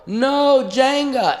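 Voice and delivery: high, loud mock panic. Comic telling himself no as the Jenga tower wobbles, in high mock panic. Begging the falling block in panic.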